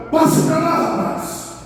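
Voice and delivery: sharp, high-pitched order to a dog; serious command. Retold or imitated. Owner ordering the neighbour's dog away, sharp and serious. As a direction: demonstrate an order that means business. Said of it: "ele sabe onde você tá falando com ele sério".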